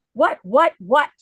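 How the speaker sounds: high, loud mock disbelief; shocked friend. Friend Mary shocked by how good she looks, loud high disbelief. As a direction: imitate a friend's stunned what-what.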